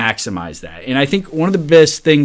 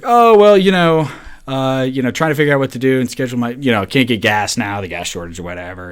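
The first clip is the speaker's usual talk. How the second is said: fumbling made-up excuse; 2 semitones higher than usual. Retold or imitated. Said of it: "some crap".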